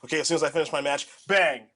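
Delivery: fast, then a loud bang on the last word; mock hurried teammate. Teammate rushing their own match, fast with loud bang. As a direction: rattle it off fast and punch bang. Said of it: "you just have to be like".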